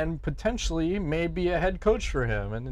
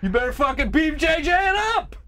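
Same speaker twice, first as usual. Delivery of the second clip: put-on much higher, hammy Canadian accent; 12 semitones higher, 4 dB louder than usual. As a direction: overdo a silly Canadian accent. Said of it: "With the worst Canadian accent ever".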